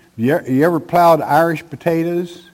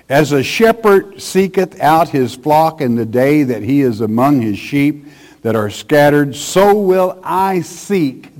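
louder, emphatic preacher's Bible reading; forceful scripture reading; 2 semitones higher, 3 dB louder than usual. Acted. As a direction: proclaim the verse from the pulpit. Reads scripture aloud forcefully.

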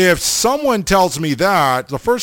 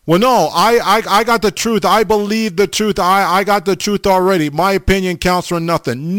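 higher-pitched, hurried mock protest; protesting objector; 5 semitones higher than usual. Preacher playing someone who claims to have the truth, mock protesting. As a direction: stammer on "I", insisting in a higher voice.

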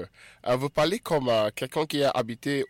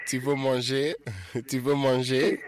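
laughing correction. Real, not acted. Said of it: "host corrects caller, laughing".

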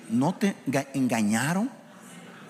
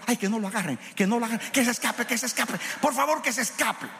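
pleading viewer; 8 semitones higher, faster than usual. Retold or imitated. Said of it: "y tú".

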